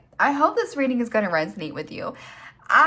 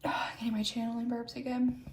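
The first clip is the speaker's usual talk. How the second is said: whisper; 6 dB quieter than usual. Real, not acted. Embarrassed aside while channeling.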